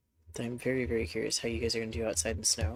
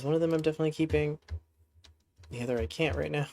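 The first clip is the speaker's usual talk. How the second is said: hiccups; 3 semitones higher, faster than usual. Real, not acted. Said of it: "And I have hiccups".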